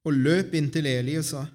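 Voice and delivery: measured Bible storytelling with pauses; scripture reading. A narrator's reading. Reader shares Samuel's story with the congregation, scripture reading. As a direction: read the chapter out clearly to the congregation. Reads a Bible chapter aloud.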